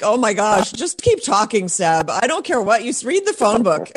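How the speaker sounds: lightly swooning, lilting fan reaction; mock-besotted plea breaking toward a laugh; playful gushing. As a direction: gush as if smitten by the guest's voice. Replays gushing reaction to guest's voice.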